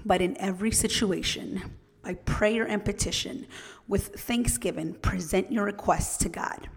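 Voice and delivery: measured, gentle Bible verse read aloud; scripture reading. Acted. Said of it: "I'm gonna read them out loud now".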